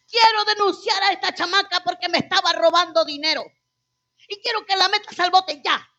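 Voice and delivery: insistent retold denunciation; angry demand. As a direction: imitate an irate father reporting someone to police. Father denouncing daughter to police.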